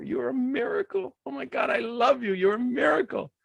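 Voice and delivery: excited praise. Real, not acted.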